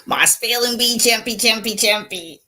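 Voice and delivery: proud mother showing off her spelling bee champ; proud, laughing. Real, not acted. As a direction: show him off, bubbling with laughter.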